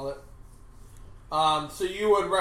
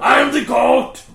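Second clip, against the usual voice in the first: shout; 6 semitones higher, 11 dB louder than usual. Pretend. Shouted goat catchphrase.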